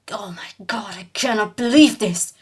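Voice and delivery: hushed, breathy mock despair; exasperated drunk. Drunk cyclist blocked again by a crowd, whispered mock despair. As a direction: sigh it out like a drunk fed up with crowds.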